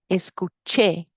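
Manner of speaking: Escuché with the final "ché" stressed; stress on last syllable. Shown as a demonstration. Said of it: "you stress that last syllable".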